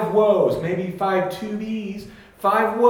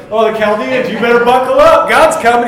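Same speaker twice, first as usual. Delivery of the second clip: loud, raised-pitch proclamation; mock warning; 5 semitones higher, 10 dB louder than usual. Preacher warning the Chaldeans, loud mock alarm. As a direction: sound the alarm, loud and high.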